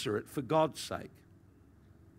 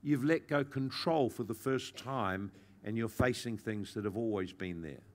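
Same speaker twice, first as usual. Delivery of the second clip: gentle reassurance. Retold or imitated. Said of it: "the Lord gently just said to me".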